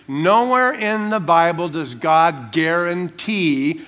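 "guarantee" drawn out slowly for emphasis; stress on guarantee. Real, not acted. Preacher warning the congregation about promised riches, stress on "guarantee". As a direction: lean slowly on the word "guarantee". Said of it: "underline the word guarantee".

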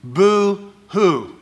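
drawn-out, loud mocking boo-hoo; mock his self-pity with two long high notes; mock crying. Mocks the complaining elder son.

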